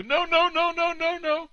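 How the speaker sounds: high-pitched mocking wimp; mock helpless protest. Host mimicking a man thrown in the pool, high mock protest. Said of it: "All he could do about it is go".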